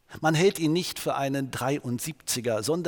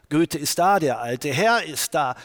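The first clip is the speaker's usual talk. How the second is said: a louder, eager call that Goethe is here; excited announcement; 5 dB louder than usual. Retold or imitated. Zelter announces Goethe's arrival.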